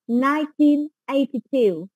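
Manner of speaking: slow model reading. Shown as a demonstration. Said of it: "mình sẽ đọc đó là nineteen".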